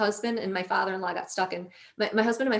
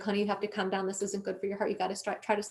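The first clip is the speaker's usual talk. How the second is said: soft, hushed soothing of an upset loved one; retold comforting; 6 dB quieter, faster than usual. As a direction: gently talk them down, voice softened. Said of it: "was trying to comfort me".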